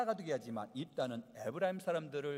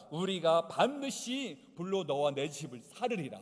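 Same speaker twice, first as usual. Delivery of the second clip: threat; 4 dB louder than usual. Retold or imitated. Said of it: "엄포를 놓고 있어요".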